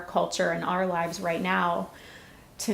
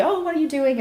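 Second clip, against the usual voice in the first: lightly voiced husband, much higher and louder; a mock puzzled husband, pitched up; imitating husband; 9 semitones higher, 5 dB louder, faster than usual. Retold husband finding her in bed.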